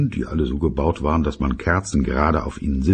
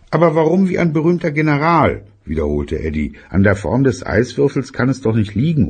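put-on child voice; 9 semitones higher, 3 dB louder than usual.

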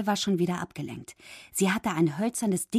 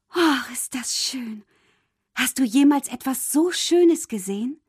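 delighted; 6 semitones higher, 5 dB louder than usual. A narrator's reading. Mermaid admires glittering fork.

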